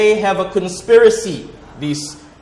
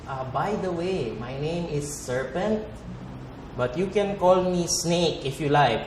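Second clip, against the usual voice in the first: smooth soft serpent; 7 dB quieter than usual. Acted. Serpent introducing itself to Eve, soft and smooth. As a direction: charm her quietly.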